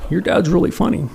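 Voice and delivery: dry ironic remark; mock sarcastic friends. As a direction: say it with a sneer after the smell. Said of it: "you know, like".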